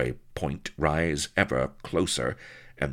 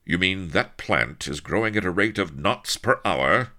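louder, higher disbelieving question; incredulous cry; 5 semitones higher, 6 dB louder than usual. A narrator's reading. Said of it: "he cried".

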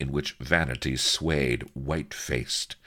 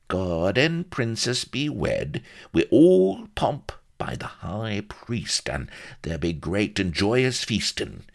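high, drawn-out country dialect; rustic old storyteller; 7 semitones higher, 4 dB louder than usual. A narrator's reading. Solomon foretells a royal wedding feast, savouring rustic voice.

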